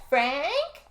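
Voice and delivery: high, drawn-out call for someone in the house; mock calling out. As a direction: imitate calling upstairs without real volume. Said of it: "goes back to yelling for Frank".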